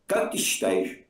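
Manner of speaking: ordinary delivery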